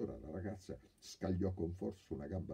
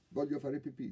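put-on child's plea; 10 semitones higher, 5 dB louder than usual. Little boy voiced in story.

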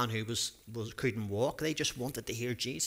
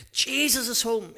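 much higher, louder excited call; yelled; 9 semitones higher, 5 dB louder than usual. A narrator's reading. Four friends telling each other Jesus is home, excited yell. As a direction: shout the news to the others. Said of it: "yelled his friends".

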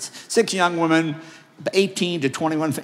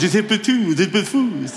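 put-on crazy old man; 3 semitones higher than usual. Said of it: "crazy old man".

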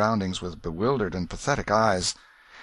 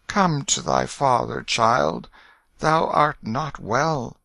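higher, tender coaxing; gentle fatherly voice; 6 semitones higher, 3 dB louder, slower than usual. A narrator's reading. King calling his unwell child to him, gentle voice. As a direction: coax gently, slowing to the end. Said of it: "said in a gentle voice".

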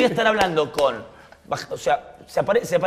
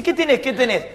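higher, insistent mock questioning; retold nervous demand; 7 semitones higher, 4 dB louder than usual. Robbers asking Mario what he is hiding, jumpy high questioning. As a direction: repeat it jumpy and raised.

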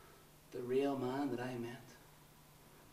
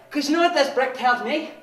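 loud, higher, relentless shouting; fanatical ranting; 6 semitones higher, 18 dB louder than usual. Acted. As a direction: rally cry of hatred.

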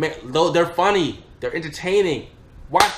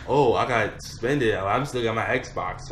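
lazy smug friend; 4 semitones lower, slower than usual. Retold or imitated. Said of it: "And he's like".

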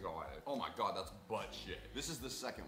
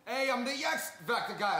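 TV host voice; 12 semitones higher, 10 dB louder than usual. Pretend. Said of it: "Can you be the X Factor people?".

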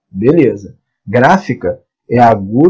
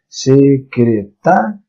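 slow syllables; much slower than usual. Shown as a demonstration. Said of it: "Essa aqui é a mais forte".

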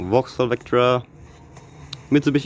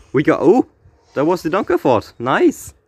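excited; 5 semitones higher, 3 dB louder than usual. Real, not acted. Rare car pulled from pack.

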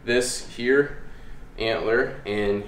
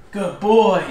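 high, loud gushing praise; excited praise; 10 semitones higher, 8 dB louder than usual. Shown as a demonstration. Trainer demonstrating to viewers high, gushing praise. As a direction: show the happy praise voice. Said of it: "And then continuously just".

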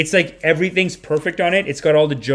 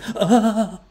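high fluttering sigh with a laugh; hammed-up flutter of delight on the breath; bonus flutter sigh; 7 semitones higher than usual. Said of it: "I got to do a bonus flutter".

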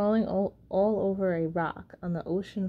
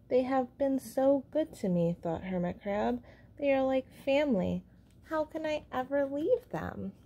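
hermit crab voice; 5 semitones higher than usual. Acted. Hermit Crab thinking fondly.

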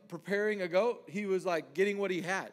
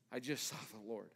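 awed hush; 8 semitones lower, 10 dB quieter than usual. Retold or imitated. Awed quote after whisper.

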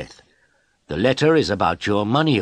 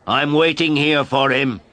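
mild shout; 7 semitones higher, 5 dB louder than usual. A narrator's reading. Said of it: "I shouted at her".

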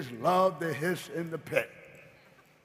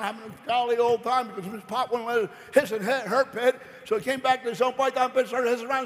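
normal talking voice

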